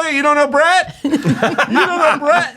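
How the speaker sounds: high, laughing fake surprise; mock surprise. Playacting the party intro to spouse, laughing fake surprise. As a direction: pretend you never met.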